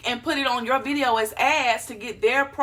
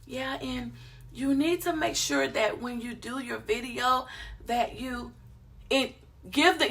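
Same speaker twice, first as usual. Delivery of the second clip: much softer, hesitant mumble; unconfident mumble; 6 dB quieter than usual. Shown as a demonstration. Showing the unconfident delivery, much softer. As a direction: trail off without contact. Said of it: "Don't talk like".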